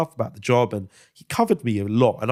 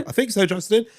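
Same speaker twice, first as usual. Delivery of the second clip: retold reply; 10 semitones higher than usual. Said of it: "And I'd be".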